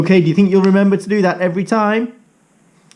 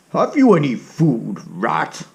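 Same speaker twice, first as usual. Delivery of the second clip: a hungry cat sizing up prey; lightly voiced greedy cat; menacing cat. Cat character speaks.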